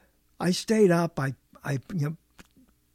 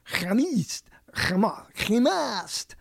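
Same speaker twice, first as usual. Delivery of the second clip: mock French chemist; 3 semitones higher, much slower than usual. Shown as a demonstration. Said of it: "how would you say that".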